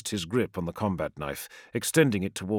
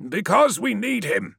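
quick retort; 9 semitones higher than usual. A narrator's reading. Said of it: "shot back Menkora".

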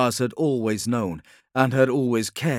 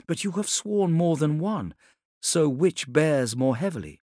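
higher woman's voice, probing; challenging Ilya; 6 semitones higher than usual. Acted. Ilya challenges the Khan over his rival oaths, higher and probing. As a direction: counter him in a raised pitch.

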